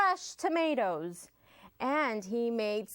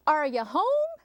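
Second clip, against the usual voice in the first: higher, louder call from outside; yelled call; 7 semitones higher, 5 dB louder than usual. Acted. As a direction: call through the door. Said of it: "someone yelled outside".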